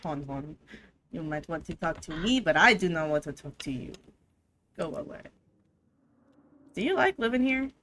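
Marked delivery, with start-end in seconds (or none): 0.0-5.2 low, soft mock French purr of a haughty cat; snooty French cat. Player voicing the hostile cat in a mock French accent. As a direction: sneer it like a snobbish French cat.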